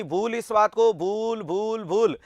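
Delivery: acted chant, willing oneself to forget; insistent self-command. Exam student telling themself to forget an accident, mock insistent repetition. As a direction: drum it into your own head, word by word. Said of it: "आप उस बात को बोल रहे हो".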